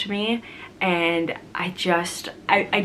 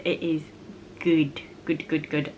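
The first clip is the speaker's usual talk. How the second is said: whisper; 3 semitones lower, 6 dB quieter than usual. Acted. Repeats praise, dropping to whisper.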